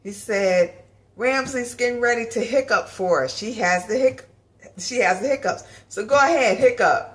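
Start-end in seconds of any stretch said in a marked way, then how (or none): 1.1-7.1 teacher voice. Retold or imitated. Teacher mocks her hiccup.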